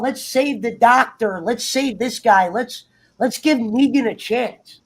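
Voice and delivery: slow, whiny mockery. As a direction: sneer it out slowly. Mocking soft Carl.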